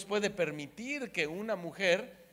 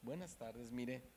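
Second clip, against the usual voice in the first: much softer, timid polite murmur; meek and respectful; 11 dB quieter than usual. Retold or imitated. Wife now speaking humbly to the guard, meek and soft. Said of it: "le habló con respeto".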